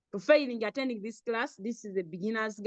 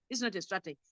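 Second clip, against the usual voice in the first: It's not a strategy, dropped softer, "not" still leaned on; softer repeat; 4 semitones lower, 8 dB quieter, faster than usual. Shown as a demonstration. Teacher softly repeating the point to the class. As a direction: let It's not a strategy fall away quietly.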